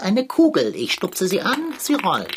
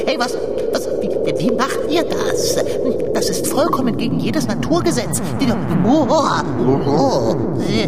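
frantic complaint; 4 semitones higher, 4 dB louder than usual. Acted. Cat carried through the air complaining.

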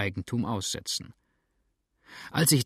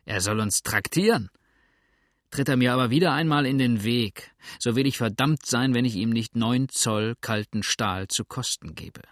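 mustache twirling villain; 3 dB louder than usual. Acted. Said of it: "sagte der mit der Narbe".

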